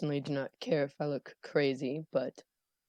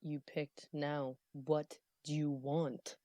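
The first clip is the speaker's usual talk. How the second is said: slow menacing character voice; 6 dB quieter, much slower than usual. Acted. Character answers mystery voice.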